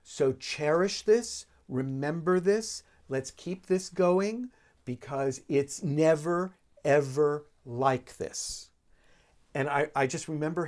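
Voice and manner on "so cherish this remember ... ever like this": soft and warm. Retold or imitated. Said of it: "being so soft and warm".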